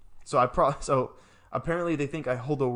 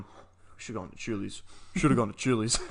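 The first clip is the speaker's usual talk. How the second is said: grumbling dad; 4 semitones lower than usual. Retold or imitated. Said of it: "he was sitting there going".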